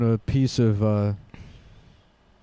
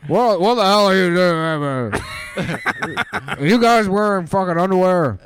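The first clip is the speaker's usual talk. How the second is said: higher, louder shocked outburst; mock outrage; 7 semitones higher, 5 dB louder than usual. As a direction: act appalled at the underwear.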